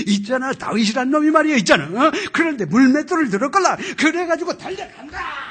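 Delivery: loud, fast Jeolla-dialect sermon. Retold or imitated. Teacher preaching to Sunday-school kids in Jeolla dialect. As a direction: bounce it out in thick Jeolla dialect. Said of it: "지독한 그 뭐야, 전라도 사투리를 쓰는데".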